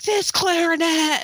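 imitating a kid fed up with her instrument; mock angry daughter. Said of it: "then she got angry".

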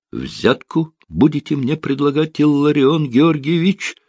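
a high-pitched squeal of protest. A narrator's reading. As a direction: squeak it out in alarm. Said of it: "взвизгнул юрист".

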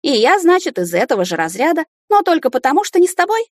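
high and loud, climbing to a cry; furious building shout. Acted. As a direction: let the outrage climb to the top. Heroine furious in quarrel.

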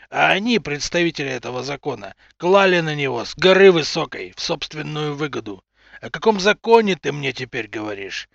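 loud furious accusation; angry shouting. Acted. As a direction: hurl it at him in rage. Enraged father confronts official.

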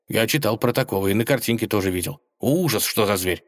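fast, babbling wolf; wolf babbles about cave bears, fast; rattling on. Acted. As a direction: rattle it off nervously. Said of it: "Серый затараторил".

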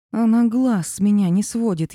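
ordinary delivery

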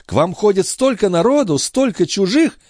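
put-on high, fast fussing old woman; mock-innocent old concierge. A narrator's reading. The concierge pretending not to know where the watch went, high and fussy. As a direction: play dumb, all fluster. Grivette deflects.

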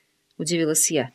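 plain reading voice

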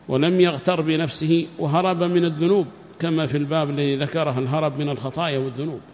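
ordinary talk

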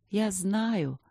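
gentle acceptance; peaceful, with a sigh. A narrator's reading. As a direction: repeat it softly, resigned to it. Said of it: "повторила она и вздохнула".

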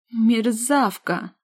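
furious sister yelling at her. Acted. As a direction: bawl the insult slowly. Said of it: "Снова заорала сестрица".

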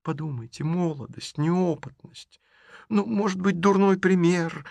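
on the edge of tears, pleading; tearful pleading. Acted. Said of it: "наполнились слезами". (сквозь слёзы, выше и медленно)

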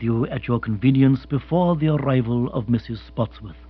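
unruffled, measured formality; Jeeves, formal butler. Acted. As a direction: report smoothly and deferentially. Narrator voices butler Jeeves.

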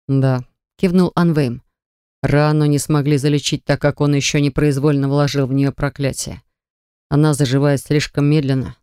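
steady, measured man; calm man's voice. Acted. Anvejm answers.

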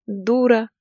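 high, bright-spirited echo of the insult; cheerful agreement. A narrator's reading. Larisa happily agrees with her aunt. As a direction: agree gaily. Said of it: "весело согласилась Лариса".

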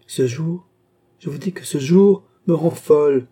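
lightly voiced queen, swelling to elation; exuberant queen, nostalgic. Queen recalling her Trianon days, exuberant. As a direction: reminisce fondly, then build to giddy delight.

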